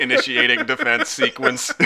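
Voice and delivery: cold machine announcement; robot voice. Pretend. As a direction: read it like a robot. Robot maces player.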